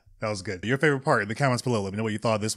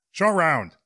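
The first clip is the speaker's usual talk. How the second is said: higher, louder call of the name; louder Harrison Ford call; 6 semitones higher, 4 dB louder than usual. Shown as a demonstration. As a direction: shout the name like an action hero. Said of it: "Nah, it's not that good".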